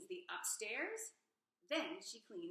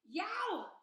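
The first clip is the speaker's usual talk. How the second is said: high, loud pained yelp; yow; 10 semitones higher, 7 dB louder than usual. A narrator's reading. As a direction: yelp at the bite. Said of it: "says the small pig as a turtle is biting".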